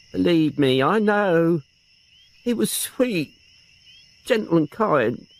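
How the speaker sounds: a touch of sobbing in the defence; tearful old aunt. Acted. Aunt defending her nephew to the inspector, tearfully. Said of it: "started to sob again".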